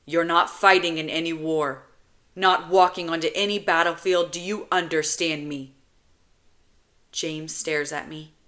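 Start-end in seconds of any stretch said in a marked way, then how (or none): 0.1-5.7 stern. Acted. Older brother forbidding child to fight.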